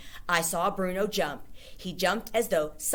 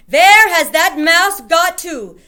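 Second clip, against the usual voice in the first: angry witch; 11 semitones higher, 16 dB louder, slower than usual. A narrator's reading. Witch searching angrily.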